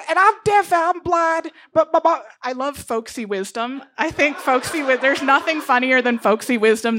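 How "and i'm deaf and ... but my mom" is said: put-on small Missouri girl, sweetly entitled; Bitsy voice. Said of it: "she goes".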